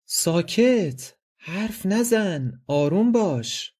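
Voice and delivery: high, slow hushing crowd of voices; several voices hushing. Acted. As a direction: hush the student like a chorus. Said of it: "چند صدا".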